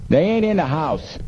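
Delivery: high-pitched smuggler's call; shout. A narrator's reading. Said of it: "One shouted".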